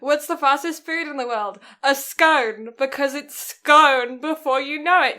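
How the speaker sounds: posh British. Shown as a demonstration. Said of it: "you sound so posh when saying that joke".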